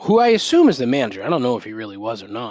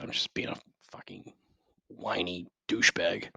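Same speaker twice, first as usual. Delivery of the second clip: muttered aside; 5 semitones lower, 10 dB quieter than usual. Real, not acted. Self-deprecating aside.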